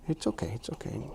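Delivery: whispered reassurance; soothing a scared dog. Real, not acted. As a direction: hush it softly to calm her. Dog pulling away, whispered.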